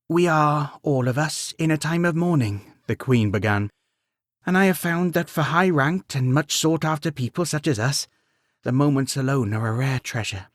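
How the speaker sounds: queen. Acted. Queen voiced in story.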